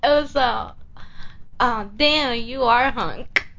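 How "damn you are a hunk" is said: slow, teasing delivery of the line; flirty catchphrase. Shown as a demonstration. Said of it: "Say that thing, your line you say".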